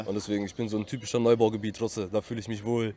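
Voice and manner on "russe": "Russe" with a rolled R. Real, not acted. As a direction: roll the R at the start of "Russe". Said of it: "du rollst es eher auch geil".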